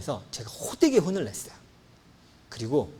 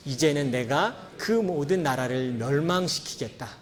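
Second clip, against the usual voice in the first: slow, measured Bible reading; scripture reading; slower than usual. Acted. Pastor reading God's words to the church, slow and measured. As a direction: read each phrase slowly to the congregation.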